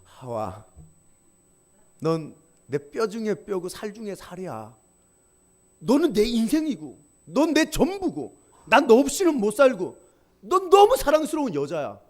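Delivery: tender, slow love confession that swells; a husband pouring out his heart to his wife; lightly voiced adoring husband; loving Adam. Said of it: "하와를 보고 이렇게 얘기하는 거예요".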